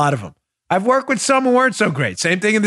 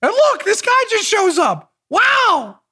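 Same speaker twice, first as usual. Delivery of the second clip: mock wonder; 9 semitones higher, slower than usual. Mocking surprise again.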